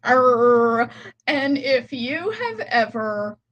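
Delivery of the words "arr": pirate voice. Pretend. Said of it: "today is Talk Like a Pirate Day".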